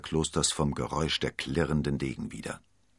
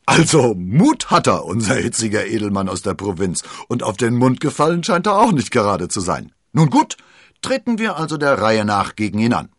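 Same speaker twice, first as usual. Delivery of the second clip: amused musketeer; 5 semitones higher, 10 dB louder than usual. Acted. Athos amused, accepts the duels.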